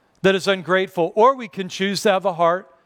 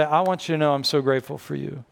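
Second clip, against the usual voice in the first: tender gratitude; 3 semitones lower than usual. Shown as a demonstration. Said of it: "I just need to say".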